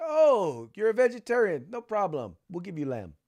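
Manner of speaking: high-pitched, breezy reassurance, imitated; movie character impression. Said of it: "a scene from, uh, My Big Fat Greek Wedding".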